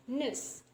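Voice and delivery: "nurse" said as nuhs, no R; dropped R. Shown as a demonstration. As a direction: leave the R out of "nurse". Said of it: "we just pronounce it as".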